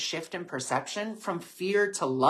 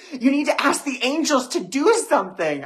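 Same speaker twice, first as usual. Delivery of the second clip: put-on much higher and louder, a kid's insistent plea; imitating little sister; 11 semitones higher, 8 dB louder than usual. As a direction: play the younger sister urging from the back seat. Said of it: "And she's like".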